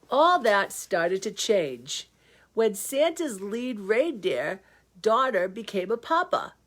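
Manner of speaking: lively storybook reading; story narration. Acted. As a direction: read it like a bedtime story. Reads the story aloud.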